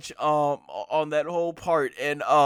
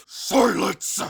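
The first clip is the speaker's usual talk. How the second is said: 1 mild mock yell; 4 semitones higher, 4 dB louder than usual. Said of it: "Jiren basically yells".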